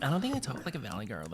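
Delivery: mock Valley Girl lilt, lightly done; teasing a friend in a Valley Girl voice; Valley Girl accent. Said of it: "maybe I just sound like Charisse now".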